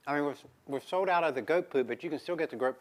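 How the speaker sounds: talking with a mouth full of granola; words mumbled around a bite. Real, not acted. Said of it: "Don't talk with your mouth full".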